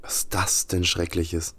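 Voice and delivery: hushed whisper while exploring. Real, not acted. Sneaking around the game level, whispering. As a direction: whisper so nothing hears you.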